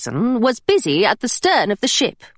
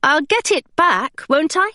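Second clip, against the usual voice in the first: put-on young Hilary; 5 semitones higher than usual. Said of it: "she asked".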